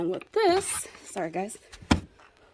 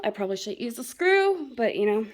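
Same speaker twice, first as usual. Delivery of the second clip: out of breath. Real, not acted. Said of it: "I'm out of breath".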